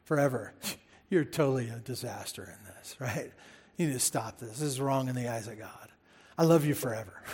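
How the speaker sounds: a gentle hint of a grandma scolding lovingly. Shown as a demonstration. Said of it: "And you just say it like this".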